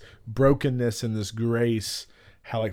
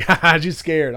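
mock chuckle, pitched up and louder; imitating laughing husband; 4 semitones higher, 5 dB louder than usual. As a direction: tease through an imitated laugh. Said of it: "he's laughing".

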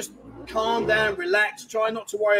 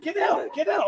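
shouted; 9 semitones higher than usual. Real, not acted. Shooing someone away on stream.

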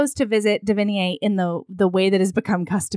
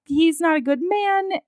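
firm refusal; 9 semitones higher than usual. Retold or imitated. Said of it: "And Dido's like".

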